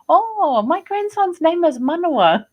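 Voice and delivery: high, loud imitation of the elder's delighted reply; imitating the elder. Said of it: "And he's like".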